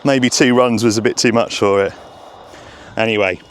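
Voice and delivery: breathless after running; short of breath, panting lightly. Real, not acted. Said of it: "Oh, I'm out of breath now".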